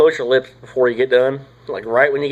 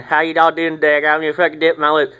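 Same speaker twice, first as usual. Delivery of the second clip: lightly mocked show-off dipper, slightly higher; mocking lip-out talk; 4 semitones higher than usual. Mocking guys who show their dip off, lip-poked talk. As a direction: imitate a guy pushing his dipped lip out. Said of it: "When guys fucking talk like this".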